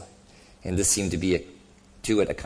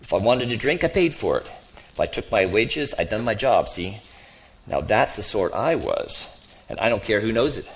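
lightly voiced grumbling ghost; a touch of self-righteous grievance in the voice; indignant ghost; 3 semitones higher, 3 dB louder than usual. Ghost defending his record to the other, mildly indignant.

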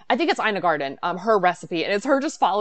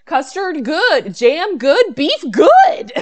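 higher, louder happy listing; Joey from Friends; 8 semitones higher, 10 dB louder, much slower than usual. Retold or imitated. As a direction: savor each ingredient like Joey. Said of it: "he's like".

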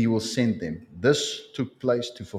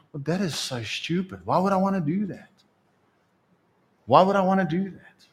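scoffing; 7 semitones higher than usual. Acted. Believer scoffs at God's call.

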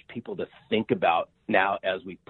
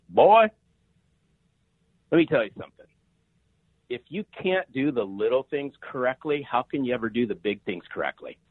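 imitating a Southern mom laying down the law, pitched up; mother-in-law's lecture; 4 semitones higher than usual. Mother-in-law lecturing her daughter's suitor at dinner, mock stern and higher. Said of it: "She goes".

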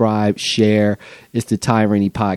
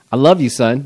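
yelled; 4 semitones higher than usual. Real, not acted. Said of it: "that's why I just yelled".

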